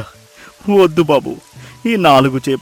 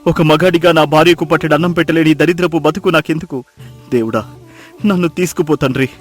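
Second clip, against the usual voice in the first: anguished lament, swinging between low and raised; wailing in despair; 9 semitones lower, 8 dB louder than usual. Acted. Fisherman on his knees in mud blaming himself, wailing in despair. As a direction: cry out to God in self-disgust. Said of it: "బోరున విలపించాడు".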